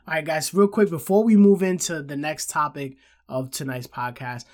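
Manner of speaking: stuffy nose, sick and nasal. Real, not acted. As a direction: talk through a blocked nose. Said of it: "I know I sound a little nasally".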